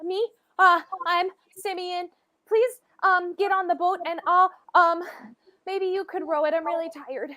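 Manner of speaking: put-on a worn-out child asking for help; exhausted boy begging them to row; tired boy.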